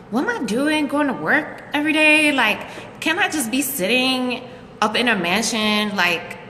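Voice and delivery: whiny daydreaming. Retold or imitated. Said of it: "Like, I'm like".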